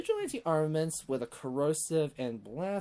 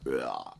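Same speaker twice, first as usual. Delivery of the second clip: burp; 12 semitones lower than usual. Real, not acted. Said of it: "Sorry, burp".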